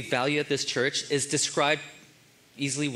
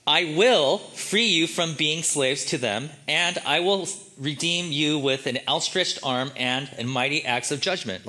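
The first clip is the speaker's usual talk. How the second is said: voice of God; slower than usual. Shown as a demonstration. Pastor voicing God's words to Moses, slow and grand. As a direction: announce it slowly like God speaking from above. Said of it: "he's talking about where".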